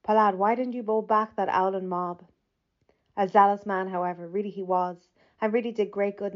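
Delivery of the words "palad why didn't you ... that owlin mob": hint of cockney. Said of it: "droll eyes and cockney voice".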